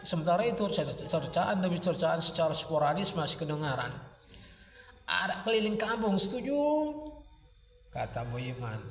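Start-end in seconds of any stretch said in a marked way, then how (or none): 5.1-6.6 high-pitched call to a crowd, rising at the end; rallying call. A narrator's reading. Villager rallying neighbours to parade the pair, high rousing call. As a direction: put it to the crowd, ending high on "setuju?".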